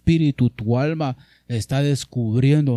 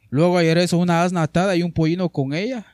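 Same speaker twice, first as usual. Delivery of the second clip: emphatic reading; 4 semitones higher, 4 dB louder, faster than usual. Real, not acted. Preacher reads verse forcefully.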